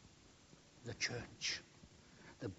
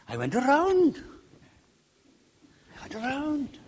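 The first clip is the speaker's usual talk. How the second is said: put-on high-pitched boy's excuse; little lad; 14 semitones higher, 5 dB louder than usual. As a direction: make a child's excuse to Dad. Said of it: "Typical little lad".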